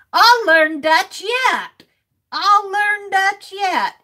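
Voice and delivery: slow, each word drawn out as she writes; dictating to self. Real, not acted. Streamer reads aloud what she is writing, slowly. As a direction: speak slowly while jotting it down. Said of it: "writing a note slowly".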